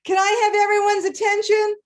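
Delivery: loud, high commanding classroom call; teacher voice. Retold or imitated. Teacher addressing the stranded passengers, loud commanding call. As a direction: call the whole room to order like a teacher. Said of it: "And I said in my teacher voice".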